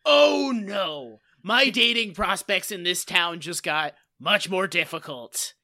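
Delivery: hammed-up oh no; mock dismayed Barney. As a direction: play the embarrassed guy after yelling. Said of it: "And then he's like".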